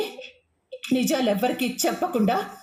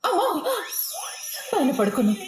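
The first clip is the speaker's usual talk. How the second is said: frightened; 3 semitones higher than usual. Acted. Terrified alone at night.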